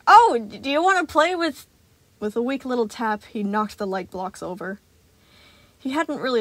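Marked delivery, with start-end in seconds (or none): 0.1-1.7 high, halting, stammering offer; a scared boy trying to sound casual; nervous kid. A narrator's reading. Gregory nervously tempting Sun with blocks.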